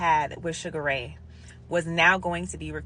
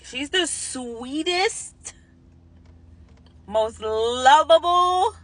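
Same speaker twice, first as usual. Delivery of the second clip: holding back tears; 9 semitones higher, 4 dB louder, much slower than usual. Retold or imitated. Telling herself not to cry.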